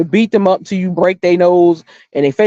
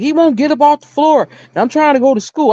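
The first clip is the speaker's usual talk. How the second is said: put-on higher pitched kid voice, lightly done; imitating the boy; 8 semitones higher than usual. Telling how the neighbor boy answered her, mild whiny kid voice. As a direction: mimic a whiny little boy. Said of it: "he was like".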